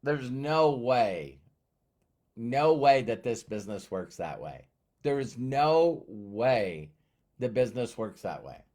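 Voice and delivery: slow, drawn-out no way; flat disbelief. Retold or imitated. Telling himself the business can't work that way, slow disbelief. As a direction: stretch each no way out in disbelief. Disbelief at his simple method.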